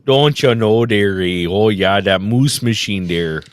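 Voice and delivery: a hint of a mock Australian accent; mock Aussie voice. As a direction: toss it off like an Aussie. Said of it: "is Australian for stream".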